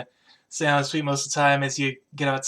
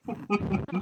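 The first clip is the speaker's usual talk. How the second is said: laugh; 5 semitones higher, 7 dB quieter than usual. Real, not acted. Game master laughs at own scene.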